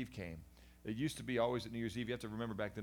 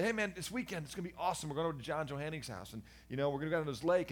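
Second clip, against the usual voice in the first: high, teasing fake enthusiasm; mocking bully; 6 semitones higher, 4 dB louder, faster than usual. Retelling how bullies taunted him, high mock cheer. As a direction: mimic the classmates' sly come-on.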